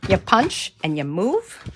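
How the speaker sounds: loud, peppy workout chant; aerobics instructor. Acted. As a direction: call it out like leading a fitness class. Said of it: "Do I sound like an aerobics instructor?".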